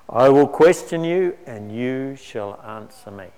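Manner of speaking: big booming voice. Acted. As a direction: boom it out like God from the storm. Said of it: "he booms out in a big loud voice".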